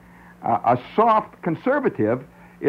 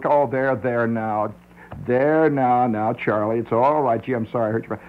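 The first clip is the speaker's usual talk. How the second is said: mock soothing. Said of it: "you do with a little".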